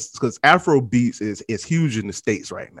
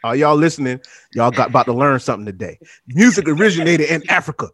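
proclaiming; 6 dB louder than usual. Real, not acted. Host proclaims to his listeners.

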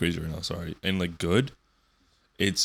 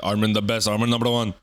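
light put-on Indian accent, louder; 5 dB louder than usual. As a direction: read the title in an Indian accent. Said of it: "I read it as an Indian guy".

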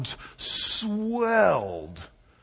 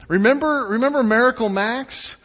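excited recall; 7 semitones higher, 7 dB louder than usual. Real, not acted. Excited movie callback, loud.

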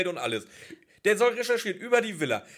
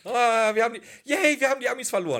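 cheering; 5 semitones higher, 5 dB louder than usual. Acted. Cheering mock victory.

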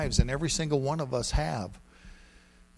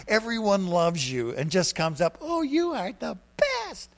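higher, lilting daydream voice; dreamy mock fantasy; 5 semitones higher, 4 dB louder than usual. Preacher teasing the congregation about instant holiness, dreamy and higher. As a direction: paint a too-good-to-be-true dream.

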